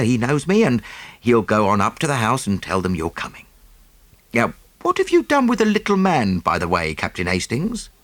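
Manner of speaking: businesslike and polite, keen to move on; lightly voiced Jap. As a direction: Scotland Yard inspector greeting the nephew, brisk. Jap chats with Hastings.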